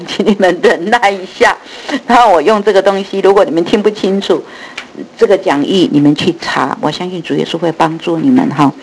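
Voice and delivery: lisping through loose false teeth; loose dentures. Real, not acted. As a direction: speak with a missing front tooth. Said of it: "所以讲话有点漏风". (假牙松动漏风)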